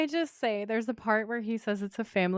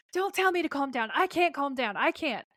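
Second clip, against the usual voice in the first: mock shouting; 6 semitones higher than usual. Sam protests to Dean, mock shouting in a frantic high pitch. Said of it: "And he's shouting".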